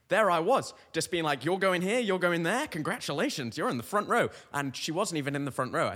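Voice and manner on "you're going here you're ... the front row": high, loud mock usher; hammed-up usher handing out seats; pretend usher. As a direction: direct the crowd with showy confidence. Plays Broadway's greatest usher.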